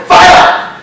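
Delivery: imitated small voice piping up; a little voice from the back of the room; mock small-voiced call. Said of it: "he hears this little voice".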